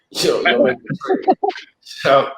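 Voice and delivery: laughing through the punchline. Retold or imitated. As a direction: laugh while closing the deal. Laughing at his own bargain.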